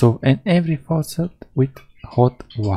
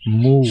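a playful, slightly louder moo; cow moo; 4 dB louder than usual. Retold or imitated. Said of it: "What sound does the cow make?".

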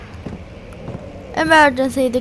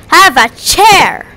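slow, higher, louder put-on voice; mock villain offer; 4 semitones higher, 5 dB louder, slower than usual. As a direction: hand it over like a gleeful bully. Throws chair at bird, joking.

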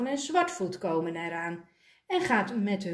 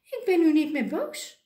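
higher and louder, bursting with joy; suddenly cheerful; 7 semitones higher, 6 dB louder than usual. Acted. Bino cheering up when told morning is over. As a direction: let the sulk melt into glee.

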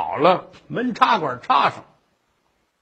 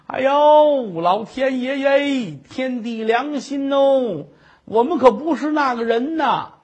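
wailing protest. Acted. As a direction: stretch each word out, begging to be believed. Wife wails her innocence to husband.

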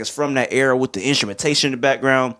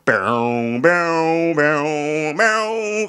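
imitated bass hit; much slower than usual. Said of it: "Like that, that sounds like some band type stuff".

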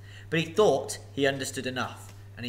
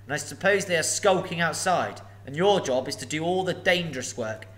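a huge dragon toying with a thief; booming sly dragon; menacing dragon; 3 semitones higher, 7 dB louder than usual. Acted. Dragon speaks.

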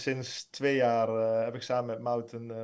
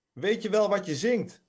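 much higher, insistent read-aloud shout; mild shout; 8 semitones higher, 3 dB louder than usual. A narrator's reading. Maud repeats herself over the din, mildly shouting. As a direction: raise the pitch to get through the noise. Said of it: "schreeuwde Maud nu".

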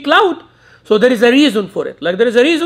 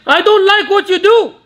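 put-on a child objecting politely to a parent; polite objection; 8 semitones higher, 3 dB louder than usual. Shown as a demonstration. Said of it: "I said".

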